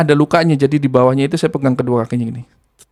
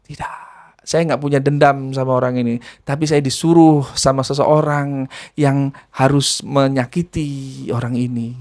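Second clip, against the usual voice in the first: hint of a jinn voice; 2 semitones lower than usual. Jinn explains its orders.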